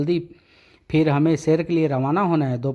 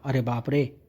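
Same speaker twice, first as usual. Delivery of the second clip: scared gasp; 3 semitones lower, 4 dB quieter than usual. Acted. Man frightens constable.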